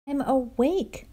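a storybook bear roar, not too scary. Acted. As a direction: Bear roaring at his friends that he can't sleep. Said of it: "roars Bear".

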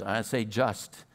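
I say just, drawn out; slow, pointed just. Shown as a demonstration. Preacher correcting his own word, slow and pointed. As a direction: say just slowly, leaning on just. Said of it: "Sometimes it's to just neighborhoods".

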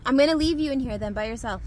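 playful threat. Real, not acted. Mom teasing sleepy son to get out of the car, playful threat. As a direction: tease him that he'll be left behind.

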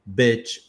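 "bitch" with a short, lax i; "bitch" with a short, weak i. Shown as a demonstration. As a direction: clip the i in "bitch", quick and relaxed. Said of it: "O I é mais fraco".

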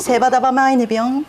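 quick Tsugaru dialect phrase, sounding almost French. Shown as a demonstration. The Aomori guest demonstrating Tsugaru dialect to the host. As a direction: rattle off セバダバマイネビョン in thick Tsugaru dialect. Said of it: "これを津軽弁で言うと".

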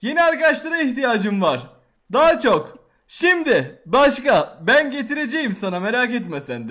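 loud demanding prince; prince shouting. Acted. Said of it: "Prens bağırdı".

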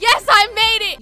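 loud, triumphant yes; excited cheer. Real, not acted. Player cheering after escaping the floor, loud triumphant cheer. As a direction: celebrate making it out. Clears a level in game.

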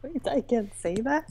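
breathy startled whisper. Real, not acted. Streamer whispering after saying something she shouldn't. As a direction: whisper it, suddenly worried.

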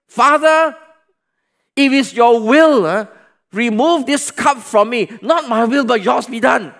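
preacher voicing Jesus pleading aloud; loud pleading prayer. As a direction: cry out to the Father. Jesus praying in Gethsemane.

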